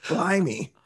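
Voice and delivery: drawn-out, put-on London accent; slow, hammed-up London accent breaking into laughter; mock London accent. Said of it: "aggressive London accent".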